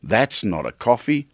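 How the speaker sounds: mild Dundee quote, coffee lifted dismissively; a hint of Crocodile Dundee, unimpressed; Dundee-style scoff. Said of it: "Crocodile Dundee of coffee".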